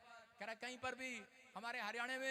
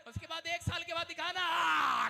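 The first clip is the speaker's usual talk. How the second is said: higher, rising to a loud roar; preacher roaring at the congregation about the wife turned lioness; building shout; 5 semitones higher, 7 dB louder than usual. Acted. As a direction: build it up and let it burst.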